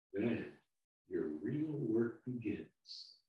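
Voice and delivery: calm the frightened little one down; soothing. Acted.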